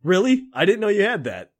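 high, surprised interest. Acted. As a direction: perk up at the news. Acted friend hearing news.

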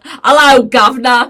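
put-on Cockney accent. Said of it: "the Cockney accent".

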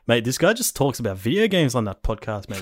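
broad Aussie Bogan voice; mock Bogan listener, high and incredulous; Bogan accent. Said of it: "this weird Bogan accent".

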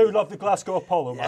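broad Scottish granny voice; Scottish accent. Pretend. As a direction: say it like a proud Glasgow gran. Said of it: "in her finest Scottish accent".

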